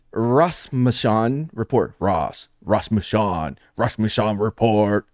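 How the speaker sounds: "Rasmussen" stretched slowly to sound out the pun; drawn-out pun. Shown as a demonstration. Host spelling out a pun for the panel, "Rasmussen" drawn out slowly. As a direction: draw out "Ross" and "Rasmussen", slow and low. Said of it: "Did y'all not get it when I said the Ross".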